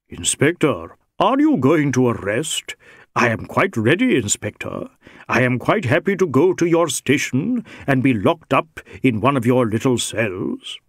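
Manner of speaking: lightly voiced Indian rogue, cheerfully compliant; a hint of a wily, untroubled Sikh; unruffled Sikh suspect. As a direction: offer yourself for arrest with teasing deference.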